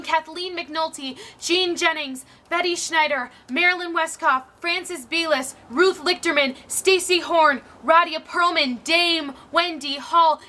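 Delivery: names read out rhythmically, building in force; declaimed roll call. Acted. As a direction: list each name like an honour, slowing on the last. Roll call of forgotten women, first time.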